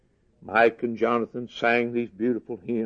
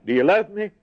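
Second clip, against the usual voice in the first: pressing question; 7 semitones higher than usual. Retold or imitated. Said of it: "what our Lord said to Peter".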